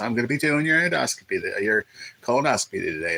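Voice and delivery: pleasant, nice womanly voice. Joking, the speaker imitates a staff member cheerfully introducing herself and announcing a medical procedure, putting on a nice womanly voice. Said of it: "like in a nice, you know, womanly voice".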